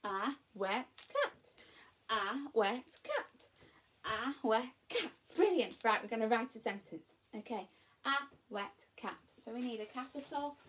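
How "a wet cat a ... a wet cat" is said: word chant gradually tightening up; building chant with shorter gaps between words; quicker repeats. Shown as a demonstration. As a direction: repeat it a bit quicker each time. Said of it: "Can you do it quicker?".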